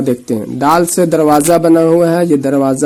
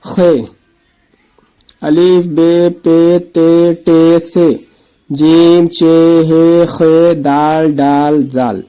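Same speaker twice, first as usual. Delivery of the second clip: slow letter drill; slower than usual. Shown as a demonstration. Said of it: "اس کے بعد حرف پہچانتے ہیں".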